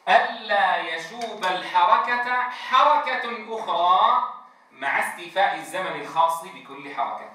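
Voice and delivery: very slow, deliberate; teacher's careful definition; slow defining statement. Shown as a demonstration. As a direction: spell out the definition slowly. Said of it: "ما معنى إتمام الحركة".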